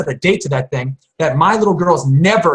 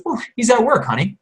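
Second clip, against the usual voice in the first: imitated mother; 6 semitones higher than usual. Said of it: "And she goes".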